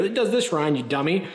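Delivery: high, mocking know-it-all voice; lightly voiced know-it-all commenter; snarky commenter voice. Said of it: "Someone's gonna correct me in the video".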